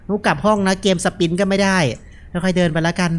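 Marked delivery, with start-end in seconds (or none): none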